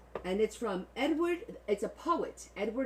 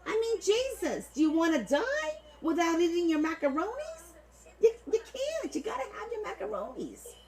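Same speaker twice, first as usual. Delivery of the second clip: very high, hammed-up Italian-American outrage; over-the-top macaroni-accent wailing, pitched way up; 11 semitones higher than usual. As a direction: plead melodramatically in a mock macaroni accent. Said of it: "I'm gonna do it like the macaronis".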